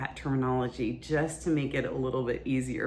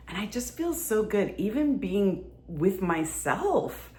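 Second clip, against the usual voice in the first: relational circuits on; 2 semitones higher than usual. Shown as a demonstration. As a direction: gush with open delight. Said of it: "show you right now the difference between when our relational circuits are on".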